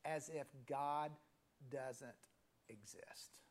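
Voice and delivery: slowing, dropping to a whispered exist; fading to a whisper. Real, not acted. Preacher drives home the point to the congregation, fading to a whisper. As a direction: let the last word vanish into a whisper.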